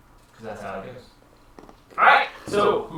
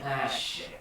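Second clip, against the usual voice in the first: soft, distant-sounding muttered curse; hushed little curse under the breath; very faint; 2 semitones lower, 7 dB quieter than usual. Acted. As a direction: let it out faintly, like a far-off echo. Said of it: "slight echo of a very faint".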